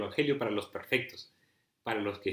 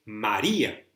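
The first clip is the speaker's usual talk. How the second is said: a louder, tender call of her name; Jesus calling her name; 6 dB louder, slower than usual. Acted. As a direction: call her by name, gently but clearly. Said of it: "le dice".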